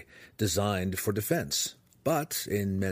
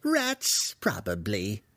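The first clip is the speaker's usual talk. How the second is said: muttering to himself; slower than usual. Acted. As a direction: talk to yourself as a cranky old wizard. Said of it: "the human muttered to himself".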